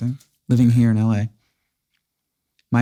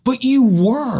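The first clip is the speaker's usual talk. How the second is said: much higher and slowed, incredulous and hurt; stunned protest; 11 semitones higher, slower than usual. Retold or imitated. Telling the friend who called that he had died, high and incredulous. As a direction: plead it like you still can't believe it.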